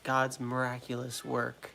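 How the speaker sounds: mocking quote. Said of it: "family members commented, like".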